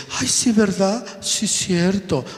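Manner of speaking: high, sing-song permissive parent voice; mock a lazy parent shooing the kid off; indulgent parent. Preacher imitates a careless parent, high indulgent sing-song. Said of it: "el hijo dice".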